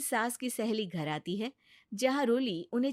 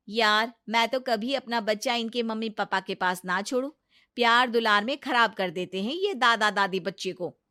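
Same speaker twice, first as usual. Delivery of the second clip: louder, insistent office friend; emphatic friend; 6 dB louder than usual. Acted. Office friend insisting grandparents spoil kids, louder. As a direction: declare it firmly and loudly.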